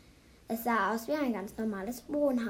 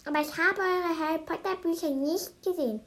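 bewildered; 7 semitones higher, 5 dB louder than usual. A narrator's reading. Old lady to children seeking their books, bewildered. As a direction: exclaim it in puzzled astonishment. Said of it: "guckte sich ganz verwirrt an und meinte".

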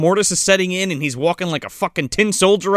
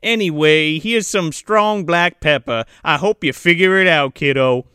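light Southern Belle imitation; hint at a Southern Belle telling a tale; understated Southern Belle put-on; Southern Belle accent; 2 semitones higher than usual. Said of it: "she's got that Southern Belle accent".

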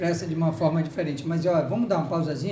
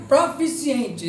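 "Proficientes" said very slowly, syllable by syllable, higher; careful slow word; 4 semitones higher, 4 dB louder, much slower than usual. Shown as a demonstration. Host checks the word on air, slow and careful. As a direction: spell out "Proficientes" slowly to get it right. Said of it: "Eu não posso dizer errado".

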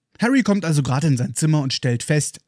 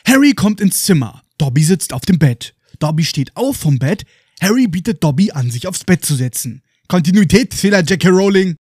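mock indignation; 2 semitones higher, 5 dB louder than usual. Real, not acted. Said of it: "mock outrage at continuity error".

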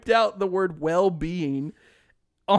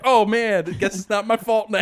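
careless shrug; 5 semitones higher, 7 dB louder than usual. Retold or imitated. Acting out a careless dream reply.

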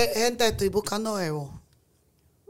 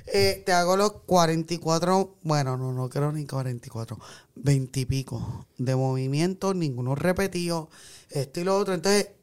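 low, subdued storytelling; voice sinking lower; 7 semitones lower, 3 dB quieter than usual. Acted. Woman acting out her exhausting evening with husband, voice sinking. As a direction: let the voice sink low and soft. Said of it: "Cada vez le baja más".

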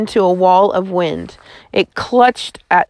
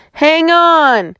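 higher urgent call; a raised warning cry; shouted; 8 semitones higher, 3 dB louder than usual. A narrator's reading. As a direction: shout the warning as the car slides. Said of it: "he shouted".

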